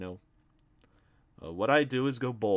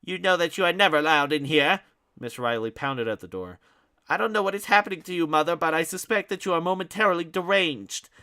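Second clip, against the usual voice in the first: pompous Ignatius; 7 semitones higher, 10 dB louder than usual. Acted. Ignatius fearful pompous rant.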